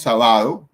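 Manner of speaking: "sábado" mal acentuado como "sabádo"; acento mal puesto. Shown as a demonstration. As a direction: carga la fuerza en la BA de "sábado". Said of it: "No decimos". ("sábado" dicho como palabra grave, sa-BÁ-do)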